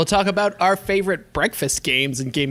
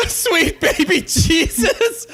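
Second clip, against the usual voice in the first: high, drawn-out mock prayer; hammed-up high exclamation; 11 semitones higher, slower than usual. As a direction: cry it out high and slow, on the edge of laughter. Mock grace, exclaimed while laughing.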